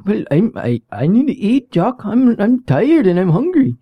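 high, whiny put-on Hispanic accent; mock Hispanic accent. Worker begging the boss for lunch in a mock Hispanic accent. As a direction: plead like a lazy worker in a bad Hispanic accent. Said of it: "I don't know what kind of accent that was".

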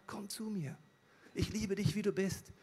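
soft, tender reassurance; gentle invitation. Acted. Preacher voices God welcoming the sinner, gently. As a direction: drop the volume and welcome them in.

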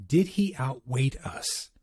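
slow, spelled-out reading; each word drawn out slowly to show the clip; carefully slowed repeat of what the clip says; slow echo of the clip. Shown as a demonstration. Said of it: "it comes out this".

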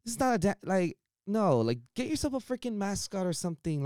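high-pitched exasperated appeal. Retold or imitated. Fan scolding the Washington team over its name, high exasperated voice. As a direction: plead in mock disbelief, pitch jumping up. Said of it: "I'm just like".

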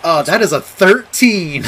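laughing in delight. Real, not acted. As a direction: laugh through the words at the roll. Big roll result at table.

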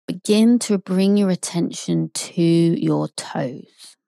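slow guided body scan with long pauses; unhurried meditation guide, leaving space between phrases. Acted. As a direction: lead them gently through a body scan, slowly.

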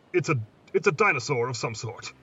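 loud and fast, tripping over the words; startled exclaiming. Acted. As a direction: blurt it out in stunned alarm. Narrator sees sea monster, stammers.

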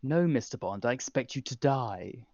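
lightly voiced movie villain, slowing on the threat; Bond villain. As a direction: play a Bond villain, measured and deliberate. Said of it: "a Bond villain sort of thing".

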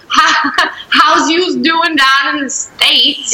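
slow, hammed-up Canadian accent that slides into Brooklyn; mock Canadian accent. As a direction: drawl it out in a jokey Canadian accent, half Brooklyn. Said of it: "like, strong Canadian accents".

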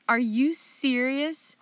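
a light mock of a giggling mom; amused mom. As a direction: play the mom trying not to laugh. Mom laughing on phone.

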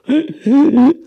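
high desperate wheezing gasp; dying baby gasp. Retold or imitated. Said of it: "Sound like a dying baby".

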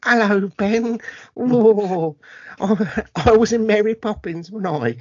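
hammed-up Cockney soap actor; bad EastEnders Cockney. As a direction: play it like a terrible EastEnders actor. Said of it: "sound like a really shit".

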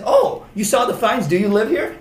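an agent demoing the next question to a visitor; friendly follow-up. Shown as a demonstration. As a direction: ask it lightly and curiously. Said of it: "then the question is".

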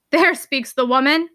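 slow, mildly exclaimed scorn; scoffing cry. Acted. Uncle laughing at his niece's wish, mildly scoffing. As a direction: lightly crow it, point proven. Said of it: "cried he".

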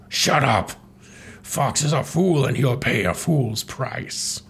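lightly voiced cartoon villain; theatrical menace, slowing on the last phrase; Andros. Villain silences Slippy, mildly hammed-up menace.

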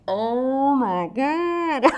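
loud, drawn-out, rising squeal of "oh my God"; starstruck freakout. Retold or imitated. Fan reliving their reaction to a favorite line, hammed-up loud freakout. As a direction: stretch it out loud and high, overwhelmed. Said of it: "I died. I was like".

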